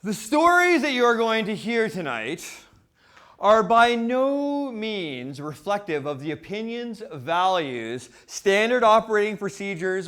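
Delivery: emphatic announcer-style disclaimer, each point stressed; deliberate, declamatory legal disclaimer; formal disclaimer. Acted. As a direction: proclaim it like an official notice, starting loud and high. Reads out a disclaimer.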